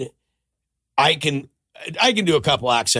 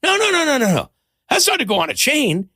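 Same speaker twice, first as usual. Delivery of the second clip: much higher, insistent mock protest; retold jeweler's objection; 14 semitones higher than usual. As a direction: imitate the jeweler waving off the idea, high and fussy. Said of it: "And he goes".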